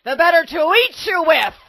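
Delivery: spring it out like a hungry wolf; exclaiming wolf. A narrator's reading. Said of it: "exclaimed the wolf".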